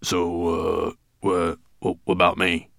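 hesitant, stammering dwarf; disconcerted. A narrator's reading. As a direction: falter into the question. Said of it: "Disconcerted, the dwarf watched him go".

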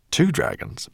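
high, worried question; anxious. A narrator's reading. Professor doubting the two-dragon plan, anxious. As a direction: query it with concern. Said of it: "Barnabas Greenbloom frowned anxiously".

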